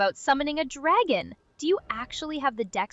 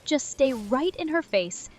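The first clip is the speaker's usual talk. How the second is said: snobby mock-French voice; lofty fake French flourish; French accent. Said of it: "snobby French person".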